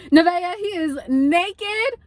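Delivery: stunned, slow rise in pitch; alarmed warning. Retold or imitated. Storyteller warns Nevaeh about a naked man, alarmed.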